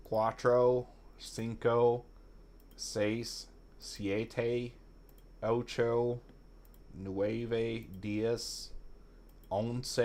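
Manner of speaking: put-on counting in a hammy Spanish accent; overdone fake Spanish accent, softly; bad Spanish accent. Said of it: "doing a really bad Spanish accent".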